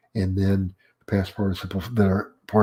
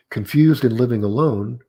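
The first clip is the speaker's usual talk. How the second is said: "Confused and living alone," louder, left hanging as unfinished; rising intonation; 2 semitones higher, 5 dB louder than usual. Shown as a demonstration. Lecturer showing an unfinished clause, rising intonation before the comma. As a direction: keep ALONE up, the sentence is not over. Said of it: "I have a rising intonation".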